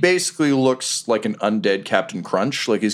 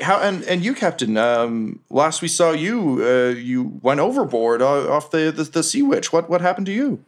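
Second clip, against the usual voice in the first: curious ghost crewman; 6 semitones higher than usual. Acted. Plays Boots questioning captain.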